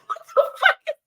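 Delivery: high, slow, whispered, laughing; high slow whispered baffled mock voice; imitating the man. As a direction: breathe it like a baffled stranger. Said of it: "This man is like".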